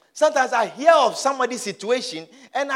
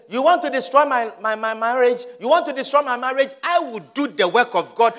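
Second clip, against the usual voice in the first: mildly raised, defiant challenge; acted indignation, starting contained; angry defiance; 3 semitones higher, 5 dB louder than usual. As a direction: confront the devil, building in force. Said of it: "Be angry at the devil".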